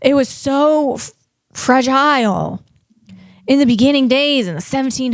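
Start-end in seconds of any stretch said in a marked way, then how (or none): 1.5-2.6 fragile said slowly as fra-JILE; drawn-out mispronunciation. Shown as a demonstration. Vlogger stressing how breakable early America was, drawn-out mispronunciation. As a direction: draw out fragile to rhyme with mile. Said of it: "and that's fragile".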